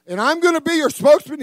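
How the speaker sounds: high, loud mock disbelief; hammed-up incredulous objection; incredulous protest. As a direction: pitch it way up, protesting loudly. Moses objecting to God, mocked.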